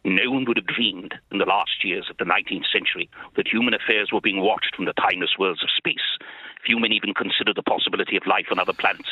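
a hint of Richard Burton reading War of the Worlds. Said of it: "Richard Burton was the best".

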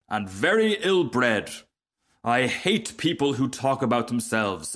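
lightly voiced pompous rocket, mildly indignant; self-important rocket. Rocket telling the frog to admire him, mildly pompous. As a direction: lecture with haughty self-regard.

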